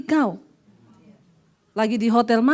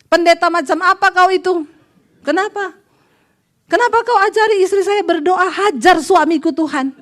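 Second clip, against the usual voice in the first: higher, louder furious phone rant; mock the outraged husband yelling down the line; angry husband; 5 semitones higher, 3 dB louder than usual. Angry husband phoning the pastor, shouting high and loud.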